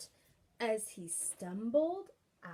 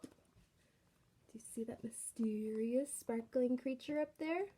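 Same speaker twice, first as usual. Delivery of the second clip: hushed question; 2 semitones lower, 5 dB quieter, slower than usual. Acted. Reader asks child, whispering.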